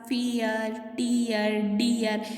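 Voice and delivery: फियर, टीयर, डियर drawn out on the ईयर ending; sounding out. Shown as a demonstration. Teacher showing the shared vowel, sounding out. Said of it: "ईयर का sound आ रहा है".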